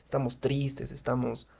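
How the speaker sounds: soft, dejected sigh of a voice; mock-miserable, hushed delivery; sad intonation. Shown as a demonstration. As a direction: let it sag, softly, as if miserable. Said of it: "demostrar con nuestra entonación".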